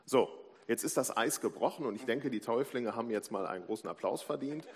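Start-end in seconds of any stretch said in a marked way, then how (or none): 2.3-4.7 loud call for applause. Real, not acted. Pastor calling the congregation to applaud the baptism candidates, loud and rousing. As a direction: raise the voice to rally the congregation.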